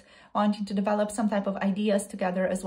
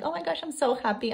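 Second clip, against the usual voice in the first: gushing happy; 6 semitones higher, faster than usual. Pretend.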